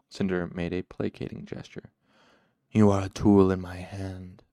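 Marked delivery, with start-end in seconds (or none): 2.7-4.4 cool, firm control, louder; gentle interruption. A narrator's reading. Shadowed man interrupts Cinder, gently but firmly. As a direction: cut in smoothly and with weight. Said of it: "the shadowed man interrupted gently".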